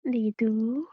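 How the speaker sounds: drawn-out cute plea; cute coaxing. Acted. Wife asks for a blanket, cute pleading. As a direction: coax him by acting cute. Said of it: "cute बनने की कोशिश मत करो".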